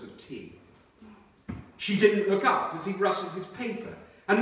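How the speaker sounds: measured reading-aloud voice with steady pauses; story narration. A narrator's reading. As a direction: read the chapter to a listening audience. Reads novel chapter aloud.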